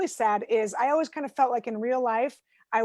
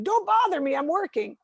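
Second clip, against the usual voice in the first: higher-pitched mild mock yell; yelling husband; 6 semitones higher than usual. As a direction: imitate your husband snapping at being disturbed. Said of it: "then yell at me".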